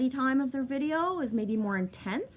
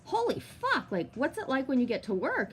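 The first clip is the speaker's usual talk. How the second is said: exasperated mock scolding, pitch leaping on key words; retold exasperation; 3 semitones higher than usual. Telling off a friend before her coffee, exasperated. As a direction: act out telling a friend off, incredulous.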